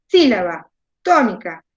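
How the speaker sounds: SÍlaba, TÓnica, cada palabra con golpe inicial; acento marcado. Shown as a demonstration. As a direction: carga la fuerza en SÍ de «Sílaba» y TÓ de «tónica». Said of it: "es donde va la fuerza". («Sílaba, tónica» separadas, primera sílaba acentuada)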